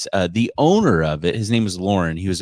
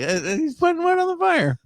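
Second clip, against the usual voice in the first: much higher, hesitant mock answer; mock deadpan reply. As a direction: play it dumbfounded and obvious. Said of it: "I was like".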